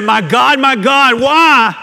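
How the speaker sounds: loud, high re-enacted cry to God; anguished cry. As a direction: cry out to heaven, building to a peak. Acts out Christ's cry from cross.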